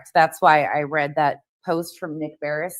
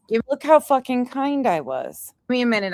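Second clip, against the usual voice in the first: mocking imitation; 8 semitones higher, 3 dB louder than usual. Mocking the streamer's plea.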